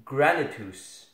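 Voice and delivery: "Granitus" said slowly with a hard G. Shown as a demonstration. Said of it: "hard G as in".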